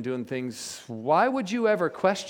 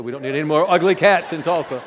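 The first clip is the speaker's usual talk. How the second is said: laughing punchline; 7 dB louder than usual. Retold or imitated.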